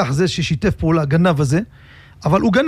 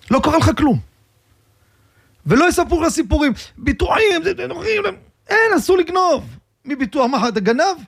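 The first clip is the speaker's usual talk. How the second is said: a higher, pleading conscience voice; good inclination voice; 9 semitones higher than usual. Retold or imitated. The good inclination scolding him, higher, pleading conscience voice. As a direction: scold yourself like your own better conscience, pitched higher. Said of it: "היצר הטוב, אומר לי".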